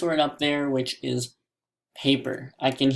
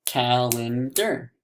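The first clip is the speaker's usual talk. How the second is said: CALENDAR slowly in three beats, cal-en-dar; slow, separated CALENDAR; broken into syllables; slower than usual. Shown as a demonstration. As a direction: break CALENDAR apart, syllable by syllable. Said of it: "I can break it apart".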